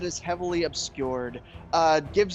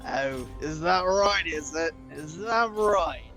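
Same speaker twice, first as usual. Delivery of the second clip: grinning orc; slower than usual. Acted.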